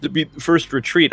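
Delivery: talking through burps; words pushed out around a burp. Real, not acted. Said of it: "I'm talking through burps".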